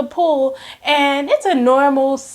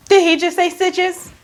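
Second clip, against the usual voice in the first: higher, mock-stunned question; disbelieving repeat; 5 semitones higher than usual. Patient hears the doctor mention stitches, mock disbelief. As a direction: ask it higher, acting out disbelief.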